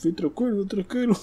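high, cocky sing-song taunt; arrogant taunt. Pretend. Player mocking an enemy, high arrogant taunt. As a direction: swagger as you call it over. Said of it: "deixa eu ser arrogante".

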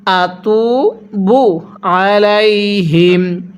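আতুবু আলাইহিম slowly with ain pressed in the throat; slow chanted আতুবু আলাইহিম. Shown as a demonstration. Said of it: "গলার মধ্যে চাপ দিয়ে পড়লে".

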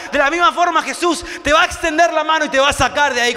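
fervent, rising sermon voice; preacher lifting the crowd; preaching. Acted. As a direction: preach it with growing conviction. Preacher building the promise.

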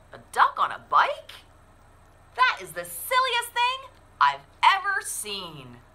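high disbelieving cow thought; amused cow. Acted. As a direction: scoff at the silly sight as the cow. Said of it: "what she thought was".

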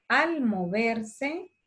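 fuertemente drawn out slowly, word by word; slow dictation. Shown as a demonstration. Teacher dictating slowly to children copying notes. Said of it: "Les puedo ir leyendo despacito".

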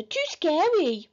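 high, drawn-out timid complaint; shuddering little brother. A narrator's reading. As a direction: stretch it out in a small scared voice. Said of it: "shuddered Peter".

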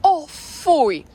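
loud, disgusted cry. Real, not acted. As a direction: recoil at the stink. Dog rolled in filth.

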